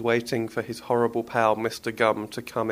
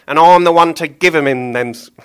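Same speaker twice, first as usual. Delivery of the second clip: loud higher butcher, stumbling; fluffed Billy line; 5 semitones higher, 11 dB louder than usual. Acted. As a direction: trip over the line mid-voice. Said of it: "take that again".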